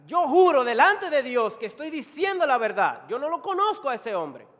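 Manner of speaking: loud, high sworn denial; Peter. Acted. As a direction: swear it forcefully, insisting on innocence. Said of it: "Es como si Pedro dijera".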